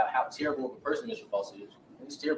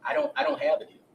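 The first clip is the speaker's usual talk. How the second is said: higher, louder 'I don't have a deal'; mock witness protesting too much; insistent denial; 10 semitones higher, 4 dB louder than usual. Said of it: "Mister Jeffries is going to testify".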